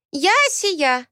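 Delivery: put-on high childish voice, announcing herself; a small girl proudly saying her name; proud little girl. Asiya introduces herself, proud childish voice.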